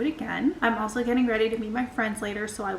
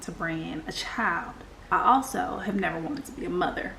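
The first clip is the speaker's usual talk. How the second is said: Southern accent. Shown as a demonstration. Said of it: "should I do this in a Southern accent? I think I'm going to".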